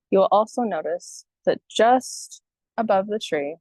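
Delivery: unhurried meditation guidance with long pauses; guided meditation. Acted. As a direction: gently guide listeners into breathing, leaving space between phrases.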